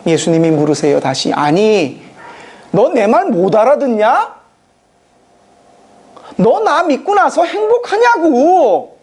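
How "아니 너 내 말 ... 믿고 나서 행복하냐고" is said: exasperated Jesus. Acted. Jesus repeats the question, exasperated.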